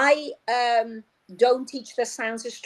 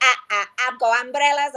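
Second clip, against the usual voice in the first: put-on a child's voice saying ah; imitating children; faster than usual. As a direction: mimic the pupils' wrong vowel. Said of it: "my children will say".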